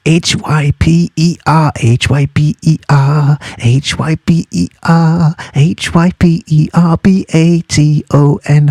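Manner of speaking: letters spelled slowly one by one; spelling out. Shown as a demonstration. Teacher spelling the term for students to copy. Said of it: "That's how you spell Hyperbaton".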